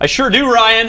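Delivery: very high, put-on announcer voice. Answering Ryan's question about having friends, in a fake announcer voice. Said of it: "this fake announcer voice you've just adopted".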